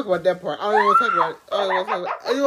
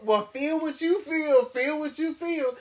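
slow, higher-pitched mimicry of a friend; mock serious friend; 5 semitones higher, slower than usual. Imitating her friend's stance on crying, mock serious and slow. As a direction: stretch it out in solemn mock sincerity. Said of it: "she be so serious".

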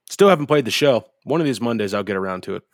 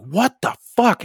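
high, loud, drawn-out exclamation; storyteller's incredulous outburst, pitched way up; retold disbelief; 11 semitones higher, 5 dB louder, slower than usual. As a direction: exclaim it slowly in mock outrage. Retold shock at puddle under car.

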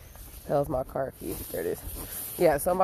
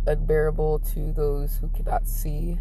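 solemn musing. Real, not acted. Vlogger describing love to viewers, solemn and halting. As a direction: weigh each phrase like improvised poetry.

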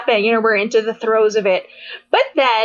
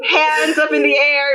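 ordinary talk

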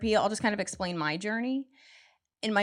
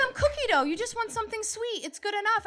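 smug man voice; 12 semitones higher than usual. Retold or imitated. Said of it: "They're like".

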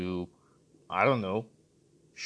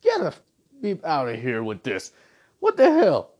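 shrill outraged disbelief, much higher; 4 semitones higher, 7 dB louder than usual. Retold or imitated. Reviewer reacting to a movie scene, outraged disbelief. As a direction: squeal it like you can't believe the scene. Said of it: "and I'm like".

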